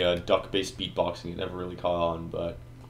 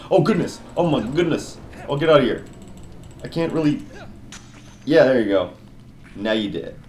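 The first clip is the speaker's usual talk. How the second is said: high, loud panicked cries; phobic panic; 8 semitones higher, 4 dB louder than usual. Real, not acted. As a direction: freak out as something grabs you. Enemy grabs him, panicking.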